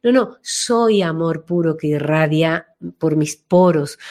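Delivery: radiant loving voice. Shown as a demonstration. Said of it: "mi voz irradia esa energía amorosa".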